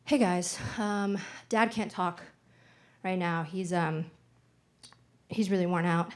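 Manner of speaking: understated weariness, with hesitant pauses; tired and sad. Retold or imitated. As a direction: imitate a worn-out mom breaking news. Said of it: "kinda tired and sad".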